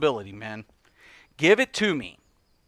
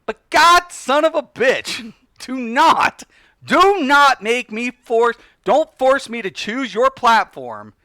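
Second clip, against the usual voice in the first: exasperated outburst; 3 semitones higher, slower than usual. Real, not acted. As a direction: burst out in real exasperation.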